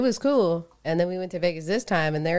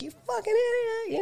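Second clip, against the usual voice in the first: imitated angry yell; faster than usual. Drunk gambler yelling at a woman, imitated angry yell. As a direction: mimic a yelled insult at reduced volume. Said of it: "he's yelling at the woman".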